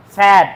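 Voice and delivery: স্যাড with a wide open a, unlike said; sad, wide open. Shown as a demonstration. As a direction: stress the open vowel of স্যাড. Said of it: "মুখটা বেশি খুলছে".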